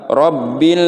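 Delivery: Rabbil with the vowel held too long; wrong long hold. Shown as a demonstration. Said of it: "nah ini nggak boleh". (Rabbil dibaca terlalu panjang)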